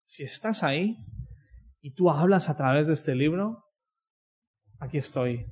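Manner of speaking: sample prayer. Shown as a demonstration. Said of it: "antes de leerla, di".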